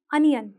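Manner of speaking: अनियन with a short "uh" first sound, ah-nee-yun; correct pronunciation. Shown as a demonstration. Teacher shows learners the right way, अनियन with an "uh" opening. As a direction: say अनियन starting on a clear "uh", not "oh". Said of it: "यहाँ पे अ का sound आएगा".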